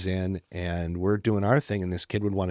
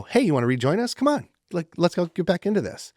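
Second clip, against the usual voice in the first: higher-pitched, encouraging invite; upbeat invitation; 8 semitones higher, 4 dB louder than usual. Retold or imitated. Adult welcoming a child back into play, upbeat invitation. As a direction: cheerily coax a kid back in.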